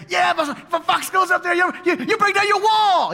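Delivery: shrill-pitched little bully's sidekick piping up; whiny little sidekick. Retold or imitated. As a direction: play the tiny yappy sidekick egging on the bully. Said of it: "And this is Tobiah right here".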